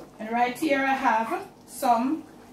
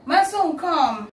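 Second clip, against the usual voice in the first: calling out; 6 semitones higher, 3 dB louder, slower than usual. Real, not acted. Calls her son over.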